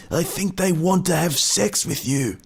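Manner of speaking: lightly high stagehand aside; a cheeky high stagehand quip. Acted. Stagehand teasing Bert about fans, lightly high.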